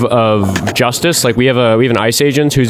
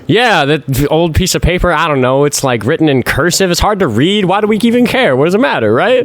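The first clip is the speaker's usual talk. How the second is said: higher, sarcastic shrug-it-off voice; mock dismissive; 4 semitones higher than usual. Host as dismissive caller, mockingly careless. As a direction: play someone who couldn't care less.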